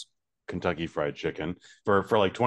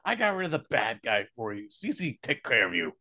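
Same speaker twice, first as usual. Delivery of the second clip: Cece; 9 semitones higher than usual. Acted. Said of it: "Cece's more talks like this".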